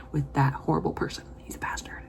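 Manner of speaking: whispered contempt; whispered grudge against the villain; spiteful whisper. Real, not acted. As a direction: hiss it under the breath. Hateful aside about villain.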